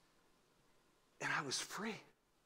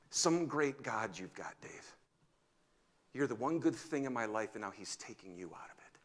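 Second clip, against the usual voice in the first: tearful whisper; 3 semitones lower than usual. Retold or imitated. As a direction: whisper it through tears. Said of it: "Tears, weeping".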